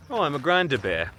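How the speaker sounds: dawning realization. Real, not acted. Vlogger working out the bear label, getting it. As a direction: let the penny drop on "Oh".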